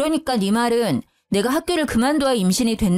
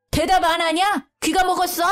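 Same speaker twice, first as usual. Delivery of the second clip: higher, scolding mock yell; mother-in-law yelling at a silent daughter-in-law, higher mock yell; 6 semitones higher than usual. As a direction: snap at her like an angry mother-in-law. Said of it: "시엄마는 소리를 지르더라고요".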